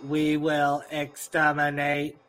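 slow, robotic Dalek monotone. Retold or imitated. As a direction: drag out each word like a killer robot. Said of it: "that's not those ones".

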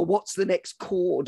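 slow, anxious mock panic; understated musician panic; panicked mock. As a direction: lose your place on the guitar. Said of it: "also I was probably".

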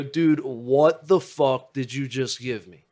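loud, drawn-out disbelief; mock indignation. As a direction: demand an answer, stretching it out. Confronting friend over the drug.

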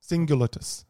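hammed-up Latin accent; slow, grand fake Latin accent; mock Latin accent. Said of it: "Why are you putting an accent on?".

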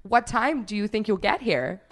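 put-on a light old American guy accent. The American owner asking when they'll arrive, light American accent. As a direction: lightly mimic the American winery man. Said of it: "I don't wanna do the accent".

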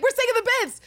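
high-pitched excited announcement; mock excitement. Him announcing a plan to her, mock excitement. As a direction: act out a giddy, high declaration.

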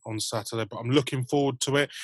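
normal talking voice

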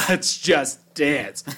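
loud, drawn-out mock whoop; laughing, loud imitation of a party shout; echoed party cry. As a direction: echo it big and stretched out. Echoing the friend's party cry.

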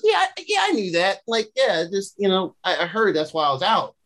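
mock-casual, stammering denial; playing it off. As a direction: imitate someone fumbling through a casual excuse. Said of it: "she was trying to play it off".

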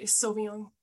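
"Sauvignon" as so-veen-yon; correcting French pronunciation. Acted. Being that person who corrects others, careful French pronunciation. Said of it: "I'm that person".

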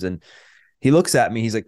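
ordinary talk, nothing marked

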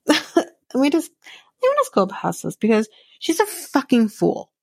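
laughing through exasperation. Real, not acted. Vlogger laughing off a contestant's words, exasperated. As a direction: laugh it off and move on.

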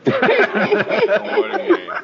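high, slow, laughing disbelief; incredulous laugh. Real, not acted.

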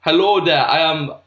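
German attempt slipping towards Jamaican; botched German accent. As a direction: try German and drift into Jamaican. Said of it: "that goes a bit Jamaican".

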